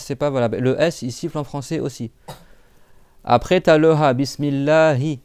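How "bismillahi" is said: BISMILLAHI slow, breathed h from low in the throat; deep-throat Ha. Shown as a demonstration. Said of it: "il est en bas de la gorge".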